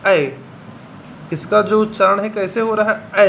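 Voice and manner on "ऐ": ऐ said as a clear open vowel, like the a in man; vowel demo. Shown as a demonstration. Teacher models ऐ for Hindi-speaking students, clearly demonstrated. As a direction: hold ऐ as an open, flat vowel for the class. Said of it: "उसको आप बोल कैसे रहे हैं?".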